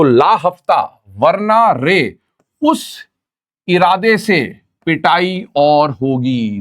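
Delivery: slow, deliberate, word by word; slow mnemonic recital. Shown as a demonstration. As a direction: lay out the memory line slowly. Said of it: "ध्यान से सुनिएगा".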